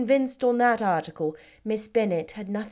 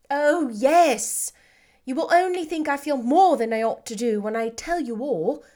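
lightly voiced, a little higher; Elizabeth, happy; 4 semitones higher, 5 dB louder than usual. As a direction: Lizzie glowing, asking approval. Elizabeth confessing.

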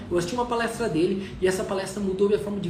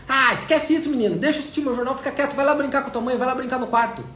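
irritated father; 5 semitones higher, 3 dB louder than usual. Retold or imitated. Father dismissing son irritably.

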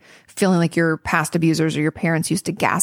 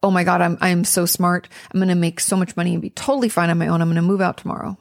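mock overconfident self-talk. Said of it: "it's not".

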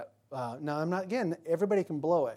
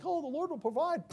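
mock pious; 11 semitones higher than usual. Mocking self-sufficient believer.

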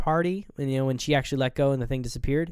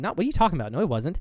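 dismissive, matter-of-fact retort; confident denial; 3 semitones higher, much faster than usual. Retold or imitated. She denies it to him, acted confident dismissal. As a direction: brush it off as if certain. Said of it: "She says it so confident".

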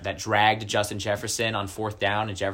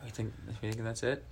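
hushed whisper close to the mic; 11 dB quieter than usual. Pretend. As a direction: whisper it like a secret. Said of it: "Why are we, why are we whispering".

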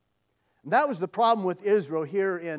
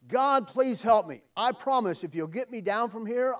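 raised, urgent plea; pleading; 4 semitones higher than usual. Acted. Stranded man bargains with God to get down, pleading. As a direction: beg to be rescued.

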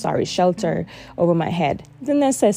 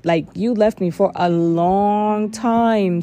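indignant accusation, rising in pitch; hurt, angry reproach, recalled; retold anger; 3 semitones higher than usual. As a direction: accuse her, building as it goes. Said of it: "that anger was towards her".

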